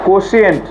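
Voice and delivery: "Quotient" said clearly as a drill word; model pronunciation. Shown as a demonstration. Teacher drilling pupils on the English word, model pronunciation. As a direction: say "Quotient" as KO-shee-ent. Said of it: "English medium का student हो".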